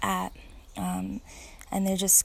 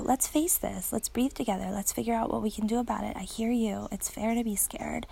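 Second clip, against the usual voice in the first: reassuring son. Retold or imitated. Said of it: "was really, really cool to go".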